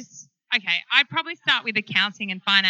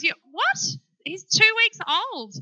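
shocked friend; 9 semitones higher than usual. Retold or imitated. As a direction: play the friend aghast at the news. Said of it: "And she goes".

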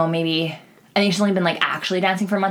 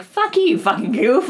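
higher, laughing comeback; laughing retort; 7 semitones higher, 4 dB louder than usual. Retold or imitated. Dancer firing back at the rude customer, laughing. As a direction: toss the insult back with a laugh.

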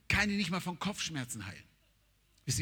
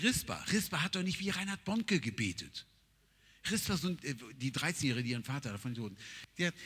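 ordinary talk

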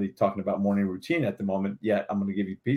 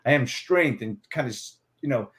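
braced strong affirmation. Shown as a demonstration. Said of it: "lock up your muscles a little bit and say".

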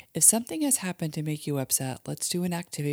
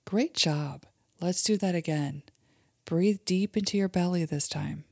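put-on guided imagery for kids; 2 semitones higher than usual. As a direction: lead a child gently through a calm daydream. Mom leads kids' guided imagery.

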